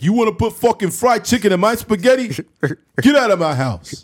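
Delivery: loud, high sing-song fury; hammed-up mobster, half-sung outrage; mock outraged Italian. Mob dad raging about chicken in his spaghetti. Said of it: "He's like".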